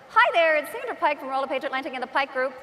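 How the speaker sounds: quick, put-on camera introduction; brisk mock promo hello; video greeting. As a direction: rattle off a rehearsed self-introduction. Acting out another video take.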